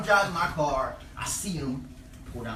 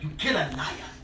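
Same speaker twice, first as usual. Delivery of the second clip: put-on African accent. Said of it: "And he's African".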